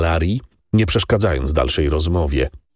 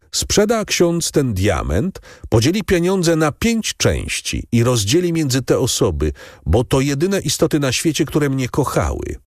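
solemn dying wish; 8 semitones higher than usual. Acted. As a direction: let each word weigh like a last wish. Priest quotes dying Edmund.

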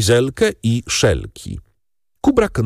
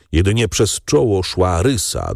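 ordinary delivery, nothing marked

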